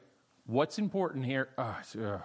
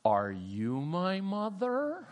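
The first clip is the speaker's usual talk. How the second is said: reading a picture book; 3 semitones higher, much slower than usual. Retold or imitated. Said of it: "the book I read to my daughter".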